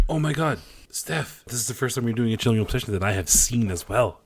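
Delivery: gushing real excitement; excited. Real, not acted. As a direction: burst in thrilled at the shared movie. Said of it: "I get excited".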